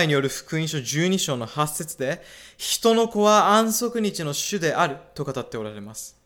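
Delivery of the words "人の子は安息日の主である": slow, higher, weighty stress on 「人の子は安息日の主である」; emphatic quotation. Real, not acted. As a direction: drive home 「人の子は安息日の主である」, raised and deliberate. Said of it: "私がなぜそれを強調するかというと". (「人の子は安息日の主である」をゆっくり高めに強調して)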